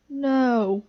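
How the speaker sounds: high, loud panicked no; sharp high shout of no; shouted refusal. A narrator's reading. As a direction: refuse in a frantic outburst. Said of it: "shouted Toad".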